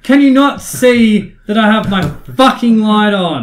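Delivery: road rage yelling. Pretend. Insulting other drivers.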